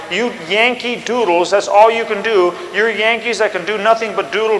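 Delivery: a pompous British general lecturing Washington; haughty British officer. Retold or imitated. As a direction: sneer down at the Yankees. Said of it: "He said".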